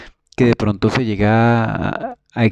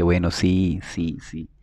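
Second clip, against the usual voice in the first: resigned yes; 3 semitones lower, 5 dB quieter, slower than usual. Retold or imitated. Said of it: "Y después dije".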